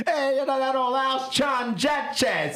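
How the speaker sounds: mock Chicago sports-fan accent. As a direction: say the name the Chicago way. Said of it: "the Chicago accent would just ruin his name".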